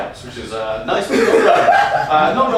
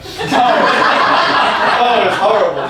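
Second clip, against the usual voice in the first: mock disgust; 2 semitones higher, 5 dB louder, much slower than usual.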